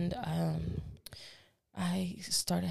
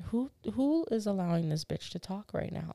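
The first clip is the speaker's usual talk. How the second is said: indignant; 4 semitones higher than usual. Retold or imitated. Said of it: "I was so mad".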